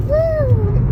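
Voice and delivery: very high real whoop of glee; excited whoop. Real, not acted. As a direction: let out a giddy cheer. Cheering between laughs.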